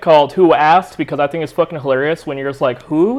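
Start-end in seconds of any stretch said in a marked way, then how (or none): 2.8-3.2 "Who?" pitched up as a question. Shown as a demonstration. Interrupting someone with "Who?", questioning. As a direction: ask "Who?" higher, as if puzzled. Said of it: "you're kinda questioning".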